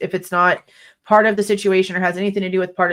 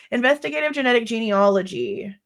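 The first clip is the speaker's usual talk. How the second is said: blocked nose voice; stuffed-up nose; 2 semitones higher than usual. Real, not acted. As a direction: talk through a stuffy nose. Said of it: "I sound like I'm stuffed up".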